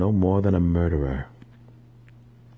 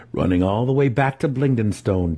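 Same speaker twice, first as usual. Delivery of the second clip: calm; 2 semitones higher than usual. Acted. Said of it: "Dinan replied calmly".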